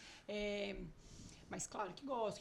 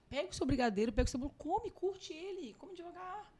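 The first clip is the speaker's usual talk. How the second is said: coaxing mindful eating; 6 semitones higher than usual. Shown as a demonstration. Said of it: "mindful eating que eu vou ensinar".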